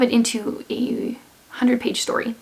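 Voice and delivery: hoarse, fading voice; losing voice. Real, not acted. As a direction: voice giving out mid-sentence. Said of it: "now I feel like I'm losing my voice".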